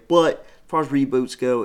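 big booming trailer voice; announcer voice. Pretend. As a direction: boom it like a movie trailer. Repeats catchphrase, dramatic voice.

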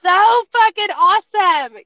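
high, loud pep talk; rally her like a best friend; hyped encouragement. Retold or imitated. Hairdresser cheers up divorcing client, loud excited pep talk.

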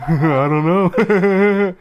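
loud, high, slow words through laughter; laughing reply. Retold or imitated. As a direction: crack up while acting out the clueless answer.

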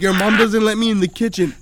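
shouting it back; mock shout. Retold argument, shouted line.

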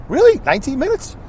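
sudden high really; a startled pitch leap; surprised. Real, not acted. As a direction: caught off guard by the time. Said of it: "Wow, shocked".

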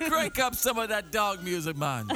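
singsong pretend Jamaican lilt; mock Jamaican accent. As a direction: call it out in a playful Jamaican accent. Continues mock reggae dog routine.

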